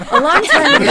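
high loud laughing once-upon-a-time; grand storyteller. Pretend. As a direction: boom it like an epic tale opening. Restarting story, overdone storyteller.

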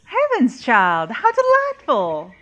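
high, bright gush of delight; delighted old lady. Acted. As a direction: squeal with delight at the news.

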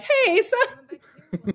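high, long-drawn character greeting; Tithia. Shown as a demonstration. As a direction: stretch the hello way up, half laughing. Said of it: "open it with her being like".

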